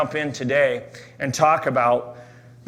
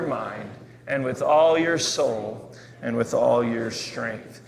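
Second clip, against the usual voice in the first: confident, slow group reading; more confidence; slower than usual. Shown as a demonstration. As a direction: proclaim it with conviction, slowly. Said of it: "Say it a little more confidence this time".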